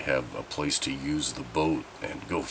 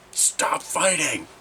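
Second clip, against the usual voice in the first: high, slow, squeaky mock yell; a bellow that comes out as a mouse squeak; squeaky failed bellow; 11 semitones higher, much slower than usual. Dad yelling at his arguing kids, voice cracks squeaky high. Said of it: "came out sounding like stepping on a mouse".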